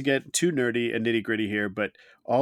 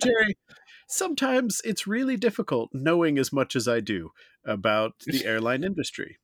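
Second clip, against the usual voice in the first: high showy announcer lead-in; segue announcer voice; 3 semitones higher than usual. Shown as a demonstration. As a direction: ham up the segue. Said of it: "the right tone 'cause this is a segue".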